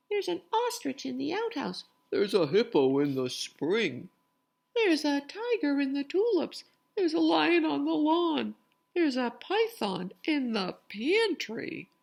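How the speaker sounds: high, loud alarmed cries; startled villagers. Acted. Villagers crying out as they find animals. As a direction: cry out at each animal.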